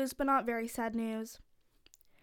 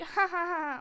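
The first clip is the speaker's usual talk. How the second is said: imitated ha-ha-ha; mock laugh; 4 semitones higher than usual. Shown as a demonstration. Host asks mom for laughing clip, fake laugh. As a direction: demonstrate a laugh track with light fake laughter. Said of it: "if we can find a laughing clip, like".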